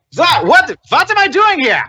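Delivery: loud, high-pitched mock German accent; Air Dobbins. Game master as Air Dobbins suddenly summoned, shrieked German accent. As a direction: yelp in bewilderment with a put-on German accent. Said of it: "German fucking".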